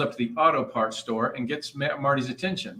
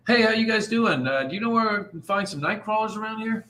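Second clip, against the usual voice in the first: cheery fisherman greeting; 8 semitones higher, 5 dB louder than usual. Acted. Fisherman greets shop folks.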